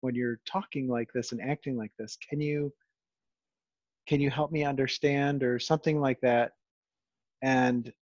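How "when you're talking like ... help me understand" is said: softer, calm reassuring voice. Retold or imitated. Father calming his toddler's tantrum, soft and reassuring. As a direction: kneel down and soothe a child. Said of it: "in a tone similar to this".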